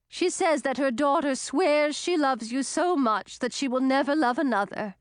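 mildly gushing interruption; eager interruption. A narrator's reading. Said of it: "interrupted Waveskimmer".

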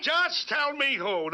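exasperated demand. Acted. Irate demand for the culprit.

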